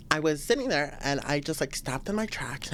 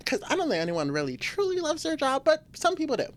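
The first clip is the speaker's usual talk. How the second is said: laughing aside; 10 semitones higher than usual. Real, not acted. Laughing self-correction about job.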